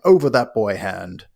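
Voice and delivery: slow mock sheriff, words in the wrong order; lightly voiced bumbling sheriff; jumbled sheriff line. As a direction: ham up the sheriff jumbling "Over that boy hand". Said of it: "he jumbles up his words".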